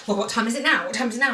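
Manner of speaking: a hint of gruff impatience; mildly gruff, pestering repeat; gruff husband impression. Wife imitating husband asking the time again. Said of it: "And you like".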